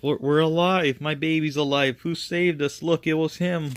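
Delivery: high-pitched joyful crowd voices; relieved amazement. Acted. Revived townspeople realizing who saved them, high and amazed. Revived people rejoice and hail hero.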